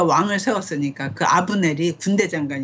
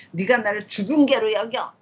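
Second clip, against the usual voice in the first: higher-pitched, mildly indignant question; escalated mock indignation; 4 semitones higher than usual. Shown as a demonstration. Teacher acting Abner protesting the worst insult, mock indignant. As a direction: top step of an acted, mounting complaint. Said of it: "이러면 나를 점점".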